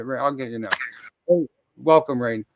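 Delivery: normal talking voice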